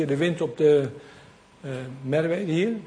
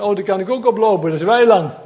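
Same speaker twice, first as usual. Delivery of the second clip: quick, louder dog's thought; dog's eager thought; 4 semitones higher, 6 dB louder, faster than usual. Retold or imitated. Preacher voicing the dog that jumps on the duckweed, eager and quick. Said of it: "En die hond dacht van".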